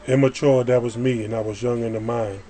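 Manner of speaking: rhythmic spoken-word verse, line openings hit harder; poem recitation. Acted. Poet testifies to being born again, reciting. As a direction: recite it firmly, leaning on each rhyme.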